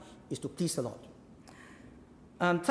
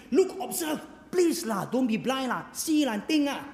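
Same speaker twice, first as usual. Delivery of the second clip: coaxing Jesus; 5 semitones higher than usual. Acted. Preacher voicing Jesus urging listeners.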